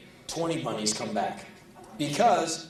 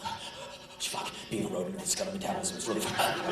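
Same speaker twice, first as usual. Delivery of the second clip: mock panting rabbit; 4 semitones lower, 7 dB quieter, faster than usual. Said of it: "they will pant like".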